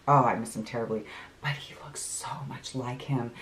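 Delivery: soft, low, trailing almost to a whisper; wistful hush. Real, not acted. Remembering late uncle seen in her cousin, wistful hush. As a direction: let it drop to a tender near-whisper.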